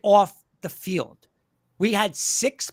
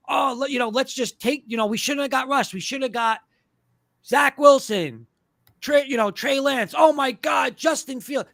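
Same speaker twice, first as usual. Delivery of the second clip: higher, hammed-up excited fan; mock group chat fan; 4 semitones higher than usual. Host imitating fans in his group chat, mock excitement. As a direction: play the overexcited fan in the chat. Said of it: "group chats".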